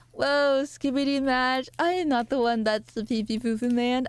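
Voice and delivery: a hint of a character voice; Eggy. Streamer retrying an impression for chat, lightly voiced. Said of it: "try to do an Eggy impression".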